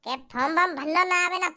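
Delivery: sneering parrot of form वॉर्म भरना ना आवे ना; a scoffing brother mimics the excuse; mocking. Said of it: "अबे चूतिया".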